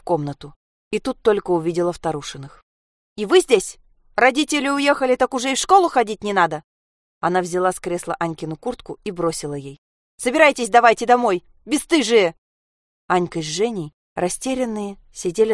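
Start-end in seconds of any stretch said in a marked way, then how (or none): 3.2-6.6 sharp scolding. Acted. Mother scolds the girls. 10.2-12.3 angry order. Acted. Mother orders girls home.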